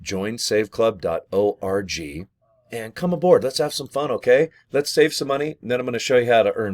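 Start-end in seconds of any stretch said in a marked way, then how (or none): 0.0-2.3 slow reminder. Shown as a demonstration.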